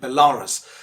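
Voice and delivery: Belarus as be-LAA-rus; mispronunciation. Shown as a demonstration. Teacher imitating common usage, mispronounced Belarus. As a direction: say "Belarus" with stressed LAA and weak ending. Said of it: "They pronounce it like".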